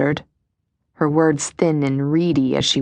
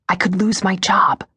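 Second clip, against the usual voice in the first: breathy whisper. Acted. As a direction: whisper it with lots of air. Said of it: "a breathy voice whispered".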